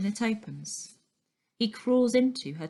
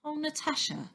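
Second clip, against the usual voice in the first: gentle plea; 7 semitones higher, 4 dB quieter than usual. A narrator's reading. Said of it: "says Stan".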